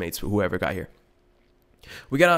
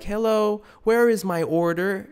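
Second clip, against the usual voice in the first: higher, slow mock of a prim white caller; imitating a very white customer on the phone; 9 semitones higher, slower than usual. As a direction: ask politely but puzzled. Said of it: "they're like".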